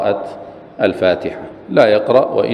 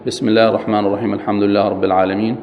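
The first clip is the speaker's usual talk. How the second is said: a fast, running recital; rushed recitation; much faster than usual. Shown as a demonstration. Teacher quoting the verses quickly as an example. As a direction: rattle the verses off without pause. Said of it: "حتى لو قال مثل".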